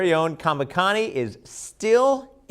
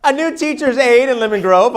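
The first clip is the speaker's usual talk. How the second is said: loud headline read; 8 semitones higher, 9 dB louder than usual. Real, not acted. Opening headline read loudly.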